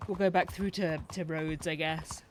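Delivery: mid-yawn, words stretched. Real, not acted. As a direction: talk through a yawn. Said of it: "Sorry, I keep yawning".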